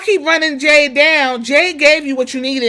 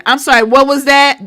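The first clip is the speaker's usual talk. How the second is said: crowd-taunting heel; 3 semitones higher, 4 dB louder than usual. Retold or imitated. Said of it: "Naomi put her ears up again".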